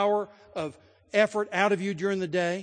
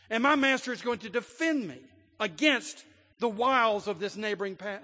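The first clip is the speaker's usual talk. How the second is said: louder, higher, rising triumphant defiance; defiant declaration; 5 semitones higher, 5 dB louder than usual. Acted. Freed slave realizing the old master has no power, loud and triumphant. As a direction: proclaim your freedom like it just dawned on you.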